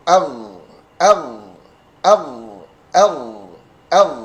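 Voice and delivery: ER as a smooth voiced back-throat fricative; soft gh. Shown as a demonstration. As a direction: let the gh in "er" hum gently. (bunyi ghin lembut)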